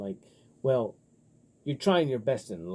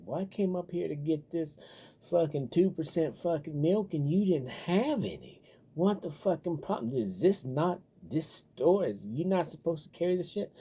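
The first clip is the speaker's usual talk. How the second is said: higher-pitched mock rant at the clerk; angry customer; 6 semitones higher than usual. Customer ranting at the store over missing milk, mock angry. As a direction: ham up a petty shopper's outrage. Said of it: "Why are you so fucking mad?".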